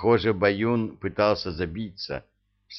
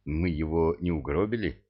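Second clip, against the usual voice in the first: frightened; 3 semitones lower than usual. A narrator's reading. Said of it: "испугался лейтенант".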